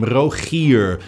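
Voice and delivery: "Rogier" with a throaty G and a soft round R at the end; soft final R. Shown as a demonstration. Dutch speaker saying his name, soft final R. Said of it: "you end the word on a soft, round R".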